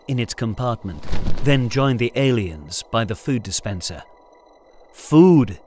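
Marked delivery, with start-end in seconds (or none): 4.9-5.6 loud, drawn-out single word; slow and deliberate. A narrator's reading. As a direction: say it slowly, like to a foreigner. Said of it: "he explained slowly".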